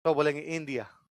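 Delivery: इंडिया said Russian-style with a soft dental d; Russian accent demo. Shown as a demonstration. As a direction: mimic how a Russian says इंडिया, dental d not retroflex. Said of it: "डे को तो बोलते हैं दे".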